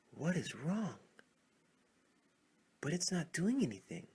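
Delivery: can't believe the log does nothing; puzzled frog. Acted. Frogs stare at the silent log, baffled and loud.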